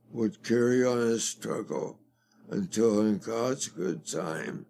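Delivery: measured oratorical delivery, lightly imitating Churchill; a hint of Churchill rallying the nation; reciting Churchill. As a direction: declaim it like a wartime address, steady and grave. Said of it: "that was Churchill's, one of his great, great speeches".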